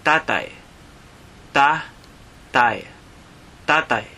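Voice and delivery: "tatay" said slowly, TA-tay, both a's open; Tagalog word for father. Shown as a demonstration. Teacher pronouncing "tatay" for learners. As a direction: repeat "tatay" clearly for learners. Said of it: "Or you can also say".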